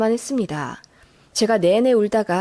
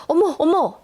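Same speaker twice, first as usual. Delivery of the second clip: higher-pitched startled gasp of words; 5 semitones higher than usual. Acted. Mother-in-law taken aback by daughter-in-law's outburst, startled. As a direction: recoil in shock. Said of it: "하시면서 놀라시더라고요".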